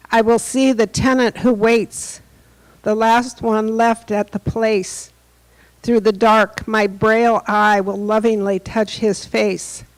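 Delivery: measured poetry recital with long pauses; poem reading. Acted. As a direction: read the poem line by line, letting each one settle. Reads the Stafford poem aloud.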